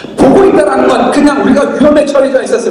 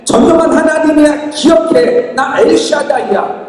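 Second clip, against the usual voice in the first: voice of God; 3 semitones higher than usual. Retold or imitated. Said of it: "아브라함에게".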